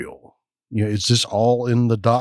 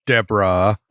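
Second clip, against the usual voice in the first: put-on Valley Girl voice. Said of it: "have to say it in the Valley Girl voice".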